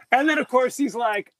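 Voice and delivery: ordinary talk, nothing marked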